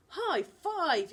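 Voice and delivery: loud, high triumphant yell. Acted. Charlie to Jazz after the rescue, yelling. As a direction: cheer the win. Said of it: "yelled Charlie".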